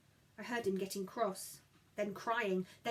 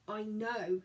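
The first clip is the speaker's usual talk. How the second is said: thick voice. Acted. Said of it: "said Gideon thickly".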